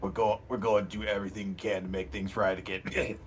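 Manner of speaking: warm. Real, not acted. Player gently comforts the NPC.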